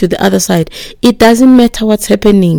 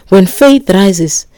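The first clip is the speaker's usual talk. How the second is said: very slow; much slower than usual. Acted. Preacher slows key phrase.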